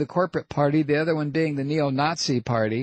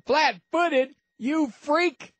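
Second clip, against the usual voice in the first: mock disbelief; 7 semitones higher than usual. Host mocks Steele's phrase.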